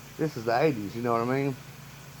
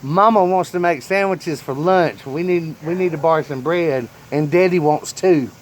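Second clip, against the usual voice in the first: put-on little girl voice; 4 semitones higher, 4 dB louder than usual. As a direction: sweetly ask like a small child. Little girl asking to borrow bread.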